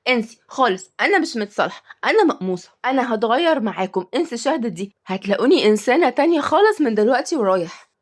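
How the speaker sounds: acted huffy refusal; mildly miffed, theatrical sulk. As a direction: play offended and refuse to make up. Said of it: "أنا خلاص مقموصة".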